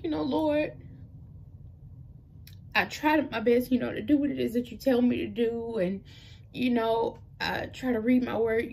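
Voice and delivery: real emotion rising into a question; getting emotional. Real, not acted. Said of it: "if I cry, y'all don't judge me".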